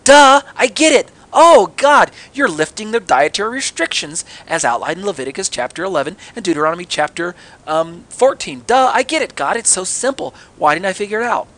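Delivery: hammed-up "duh" moment, starting high and loud; mock sudden realisation. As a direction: play Peter as if it were all blindingly obvious. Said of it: "how come he didn't just go".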